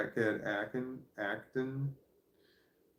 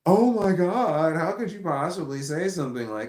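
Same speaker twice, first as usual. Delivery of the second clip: gasp, then a much higher, louder horrified cry; shocked gasp; 7 semitones higher, 8 dB louder, slower than usual. Retold or imitated. Mocking shocked listeners, gasp and high loud outrage. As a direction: clutch your pearls and gasp in horror. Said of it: "People are just like".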